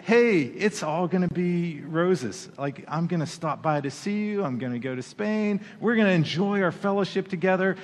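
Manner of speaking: a preacher lightly mocking Paul's sunny plans; mock cheery Paul. Preacher to congregation, imitating Paul's breezy voice. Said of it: "I think he said it in that voice".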